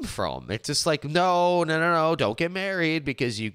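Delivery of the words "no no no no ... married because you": higher, insistent imitated objection; mock warning. Mimicking those who discourage marriage, mock warning. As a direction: wave off the idea in mock alarm.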